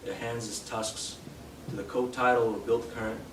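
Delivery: measured poetry recital, phrase by phrase with pauses; poem reading. Acted. Poet reads an elegy for their grandfather to an audience, measured recital. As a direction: read the verse aloud deliberately, letting each line stand.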